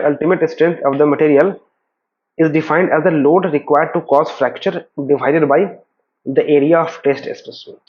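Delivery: very slow, deliberate definition read; slow dictation reading. Acted. Teacher dictating a definition to students, slow and measured. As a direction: read it out word by word for notes. Reads definition slowly from slide.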